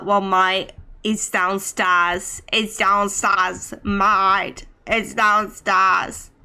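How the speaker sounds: put-on British accent. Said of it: "I can't do a British accent for too long".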